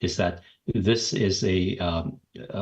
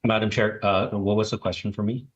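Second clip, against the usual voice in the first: speaking up; 3 semitones higher than usual. Real, not acted. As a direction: raise the voice so the chair can hear. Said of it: "speak a little bit louder".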